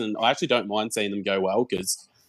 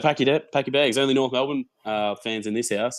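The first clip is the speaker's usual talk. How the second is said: higher, hammed-up dad laying down the law; mock stern dad; 4 semitones higher than usual. Dad teasing his five-year-old son, mock stern and higher. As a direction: play dad kicking out the Essendon fan. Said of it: "He's like".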